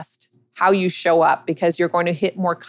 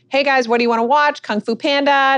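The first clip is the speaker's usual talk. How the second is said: put-on higher, quick everyday parent-to-kids voice; casual breakfast chat; 9 semitones higher, 3 dB louder than usual. Mother asking her kids over cereal what to watch, retold casual chat. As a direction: retell it as breezy morning small talk. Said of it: "like we were just sitting there having our morning cereal".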